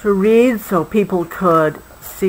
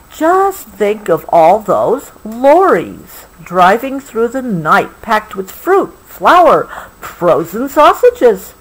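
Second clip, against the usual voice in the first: slow storybook reading; story reading; 2 semitones higher, slower than usual. A narrator's reading. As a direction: savour each item for the child. Reading book text.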